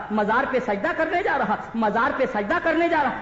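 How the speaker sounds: loud, driving sermon cadence; rousing preaching. Acted. Preacher picturing the shrine to a crowd, rousing. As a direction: build a list with forceful, rhythmic emphasis.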